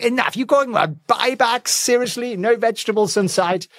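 high, indignant pet voice; voicing the dog. Owner voicing dog Winston fed up with buybacks, mock indignant. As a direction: play the fed-up dog storming off. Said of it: "He's like".

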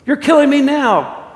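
slow, loud, high wail; acted cry of a tortured ghost; agonized protest. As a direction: wail it as if in agony.

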